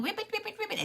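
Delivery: high, playful mock croaks; frog ribbits. Storyteller shows two friends playing together, high frog ribbits. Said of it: "and ribbiting".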